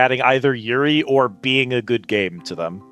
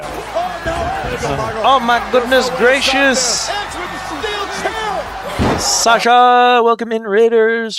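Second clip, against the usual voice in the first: cute anime streamer; 9 semitones higher, much slower than usual. Acted. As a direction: gush like a bubbly anime streamer. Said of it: "Welcome to the wonderful expanded Capital Casino".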